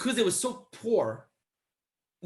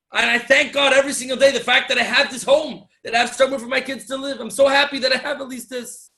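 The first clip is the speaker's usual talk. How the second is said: louder, emphatic acted testimony; earnest retold defence; 3 semitones higher, 7 dB louder than usual. Poor father explaining his life to the visitor, emphatically.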